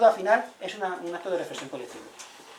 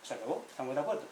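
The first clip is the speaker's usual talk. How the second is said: soft, settled restatement; quiet echo; 6 dB quieter than usual. Shown as a demonstration. Speaker echoing the elders to the audience, soft and settled. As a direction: repeat it softly, letting it land.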